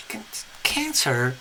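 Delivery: hushed whisper through the door. Pretend. Friends whispering to Cancer through the bedroom door. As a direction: whisper the name softly, coaxing.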